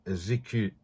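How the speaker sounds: lisping without dentures; slurred by missing teeth; missing front teeth. Real, not acted. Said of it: "I can't say that word without my teeth in".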